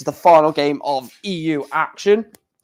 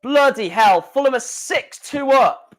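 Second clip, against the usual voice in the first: surprised; 8 semitones higher than usual. Real, not acted. Surprised at football score.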